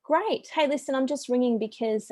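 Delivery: high-pitched "great", then easing into the pitch; lightly acted chirpy cold call; breezy phone-sales opener; upbeat sales caller.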